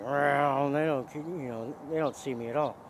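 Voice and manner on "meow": imitated car whoosh. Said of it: "They're just like".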